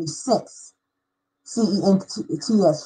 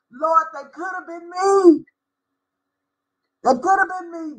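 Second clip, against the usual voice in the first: heartfelt prayer; 6 semitones higher than usual. Retold or imitated. Storyteller to the Lord after seeing her need, heartfelt prayer. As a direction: lift the voice in moved realization.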